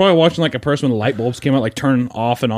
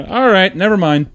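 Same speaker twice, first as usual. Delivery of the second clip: deflated giving up; 8 semitones higher, 4 dB louder than usual. Retold or imitated. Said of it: "And I was like".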